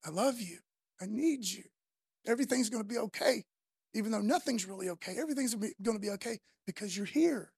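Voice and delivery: gentle, sincere declaration of need; heartfelt reassurance. Acted. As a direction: reassure a loved one from a sickbed. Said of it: "you're not just saying".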